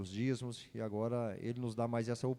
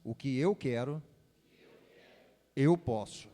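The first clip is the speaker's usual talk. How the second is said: louder, booming prophet declaration; 5 dB louder than usual. Shown as a demonstration. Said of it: "voz de profeta".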